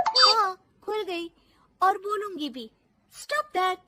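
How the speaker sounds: high, cheeky retort; defiant. Acted. Daughter-in-law answering back to mother-in-law, defiant. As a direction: talk back boldly.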